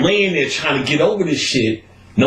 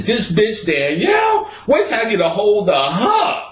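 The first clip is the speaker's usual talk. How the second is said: 1 mock furious threat; 10 semitones higher than usual. Fuming threat, half laughing.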